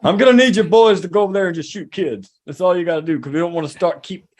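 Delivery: lightly voiced presidential command; barking an order to the troops, half-hearted; mock Obama order. Obama ordering troops, a hint of a commander. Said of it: "direct order from Obama".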